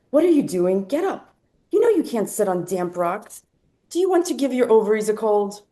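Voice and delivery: scolding mother. Acted. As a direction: nag like a worried mother, mildly. Mother's scolding voiced in story.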